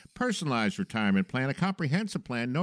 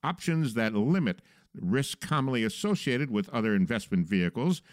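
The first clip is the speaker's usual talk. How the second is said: movie trailer voice; 3 semitones higher than usual. Acted. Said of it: "I should use my movie trailer voice for this".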